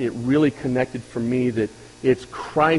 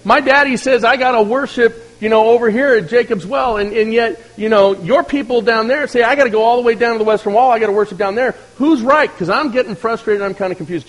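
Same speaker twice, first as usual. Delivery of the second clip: higher, lightly voiced woman, fretting and confused; preacher voicing the Samaritan woman at the well, a touch higher and exasperated; 7 semitones higher, 4 dB louder than usual. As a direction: play her as a puzzled, frustrated villager. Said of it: "Samaritan woman walks up and says".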